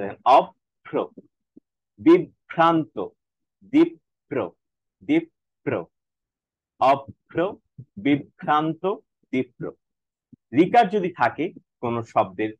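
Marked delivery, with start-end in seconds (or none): 0.4-9.6 অভ্র, বিভ্রান্ত, দীপ্র with the first consonant doubled; ob-bhro, bib-bhranto, dip-pro for অভ্র, বিভ্রান্ত, দীপ্র. Shown as a demonstration. Teacher demonstrates the rule word by word, doubled consonant. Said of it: "দুইবার উচ্চারণ হচ্ছে".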